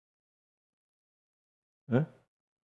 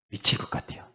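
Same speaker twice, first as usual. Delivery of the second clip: breathy whisper, barely voiced; 11 dB quieter than usual. Pastor to the congregation, whispering his frustration. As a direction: whisper it like a private confession.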